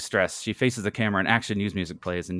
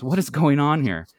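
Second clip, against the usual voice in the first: high, loud, slow demand; stretched-out scolding question; exclaiming; 7 semitones higher, 5 dB louder than usual. Acted. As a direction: demand an answer, appalled. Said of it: "Janet exclaims".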